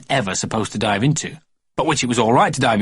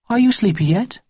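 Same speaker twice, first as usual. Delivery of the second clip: put-on soft babysitter voice; 9 semitones higher than usual. A narrator's reading. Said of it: "said the soft voice".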